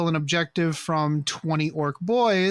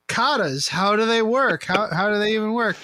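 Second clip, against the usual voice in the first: mock Juggalo; 4 semitones higher than usual. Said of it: "I put on my Juggalo makeup, and I said".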